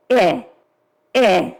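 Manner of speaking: a short voiced eh, held on the vocal cords; isolated eh vowel. Shown as a demonstration. Teacher feeling vocal cords, sounding a voiced eh. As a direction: sound out eh so the throat buzzes. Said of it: "I feel my vocal cords".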